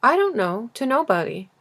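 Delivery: a touch of irritation, curt; grumpy businessman brushing off the question; peevish retort. Acted. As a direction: snap back mildly annoyed. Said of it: "retorted, peevishly".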